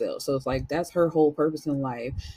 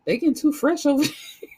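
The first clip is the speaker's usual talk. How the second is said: disapproving grandson; 9 semitones higher, 3 dB louder than usual. Retold or imitated. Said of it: "he's like".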